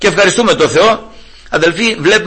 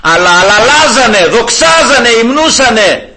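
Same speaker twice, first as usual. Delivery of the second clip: raised, ringing proclamation; high, emphatic jubilant declaring; exultant loud praise; 5 semitones higher, 3 dB louder than usual. Retold or imitated. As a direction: cry it out in contrast to whispering. Contrast to whispering: loud praise.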